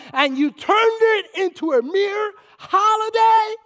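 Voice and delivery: sermon climax from hush to shout; preacher coming out. Retold or imitated. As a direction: preach it, rising to full force. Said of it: "This is the preacher in me coming out".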